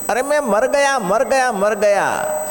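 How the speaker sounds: very high, hammed-up wail; mock cries of agony. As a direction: imitate the holy man crying out in pain. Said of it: "અને બાવો રાડો પાડે". (પીડાની ઊંચી બૂમોની નકલ)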